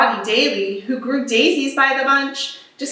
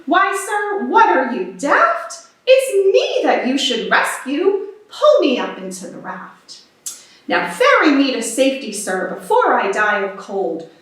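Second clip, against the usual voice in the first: lightly voiced haughty man, scornful then pleading; a hint of a spoiled gentleman; demanding castaway. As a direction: sneer at the captain, then beg to be saved.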